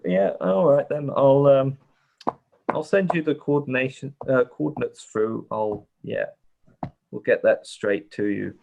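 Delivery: a hint of a bored port controller; half-listening, lightly bored official; distracted, semi-bored. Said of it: "a sort of distracted, semi-bored voice".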